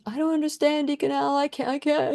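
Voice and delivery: a touch of crying in the voice; retold crying plea. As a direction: beg through remembered tears. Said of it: "I was just crying to him".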